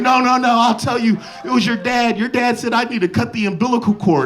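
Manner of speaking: imitating mom. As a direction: squeak out the confession like a caught mother. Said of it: "She was like".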